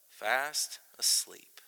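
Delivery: slow, drawn-out whisper; hushed whisper. Acted. Preacher ends the verse on sleeping Jonah, hushed whisper. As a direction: whisper it slowly, word by word.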